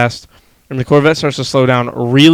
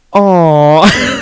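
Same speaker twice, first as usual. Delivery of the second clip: loud aww; 5 semitones higher, 7 dB louder than usual. Retold or imitated. Cooing at the turtle rescue.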